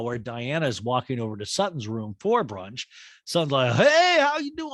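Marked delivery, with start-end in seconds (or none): 3.7-4.7 very high, loud Southern-lady mock greeting; Sutton impression. Podcast host imitating Sutton's greeting, very high and loud. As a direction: chirp it like a bubbly hostess. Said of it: "I'll say, I'll say".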